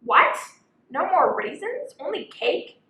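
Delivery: high, loud shocked squeal; big indignant elephant surprise; elephant's outrage. Acted. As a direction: shriek it as the cheated elephant. Elephant discovers the missing raisins.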